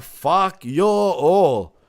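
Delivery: very slow, drawn-out mock outburst; imagined backstage cursing. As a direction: curse them out one stretched word at a time. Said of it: "and be like".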